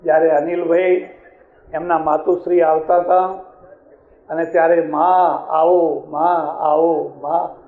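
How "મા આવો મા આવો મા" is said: very slow, tender calling to mother; a son's loving, slow call to his mother; heartfelt welcome. Retold or imitated. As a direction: linger on મા આવો with love. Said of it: "એ શબ્દોની અંદર જે લાગણી હતી".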